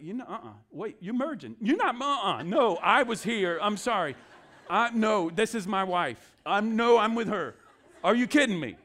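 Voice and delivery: hammed-up outrage at the queue jumper; mock indignant quarrel. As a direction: pastor acting out a petty airport line fight, mock angry. Mock quarrel over line-cutting at gate.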